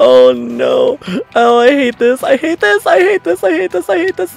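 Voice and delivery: frightened. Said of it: "I am so scared!".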